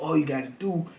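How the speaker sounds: put-on soft, coaxing New Orleans "baby"; lightly voiced New Orleans sweet-talk; New Orleans accent. Con man coaxes his mark in a New Orleans accent. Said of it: "Got that little New Orleans accent".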